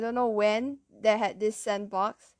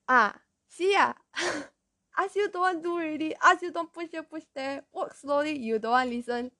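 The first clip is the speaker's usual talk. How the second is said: mock scolding, pitched up and quick at first; scolding Asian teacher; 6 semitones higher than usual. Teacher to child with a cut knee, mock scolding. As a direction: imitate an exasperated teacher telling a child off. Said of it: "That was how Asian teachers".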